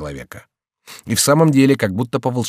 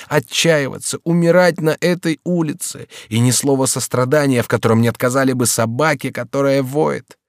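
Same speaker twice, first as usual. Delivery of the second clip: raised, pleading voice of a despairing lover; passionate young count; 6 semitones higher, 5 dB louder than usual. A narrator's reading. Young count to the servant, in despairing outcry. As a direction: pour out the lover's despair, loud and high. Henri's impassioned lament.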